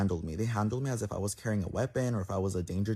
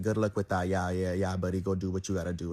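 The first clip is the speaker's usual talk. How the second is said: mocking dismissal. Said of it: "they were laughing at me".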